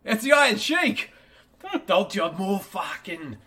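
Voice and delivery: high, loud wrestler bellow; Iron Sheik. Retold or imitated. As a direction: bark it like a crazed wrestler. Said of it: "that character is now, the Iron Sheik".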